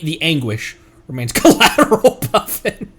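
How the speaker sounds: laughing. Real, not acted. Mishearing joke through laughter.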